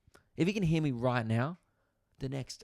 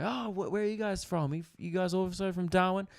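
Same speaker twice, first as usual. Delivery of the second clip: much higher, bright curious questions; chirpy old neighbour; 7 semitones higher than usual. Retold or imitated. Old neighbours quizzing the comedian, high and chirpy. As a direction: play the nosy sweet old couple. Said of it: "They go".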